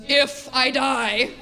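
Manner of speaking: mom correcting. Retold or imitated. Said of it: "my mom immediately goes".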